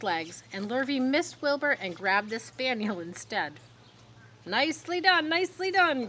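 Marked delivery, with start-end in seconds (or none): 4.5-6.1 high, loud excited goose; goose crying out. A narrator's reading. Goose shouting orders to Wilbur, high and excited. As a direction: urge the pig on in a high honking cry. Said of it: "cried the goose".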